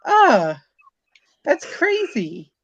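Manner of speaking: hammed-up astonished shout; amazed exclaim. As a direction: blurt it out in disbelief. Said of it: "And I'm like".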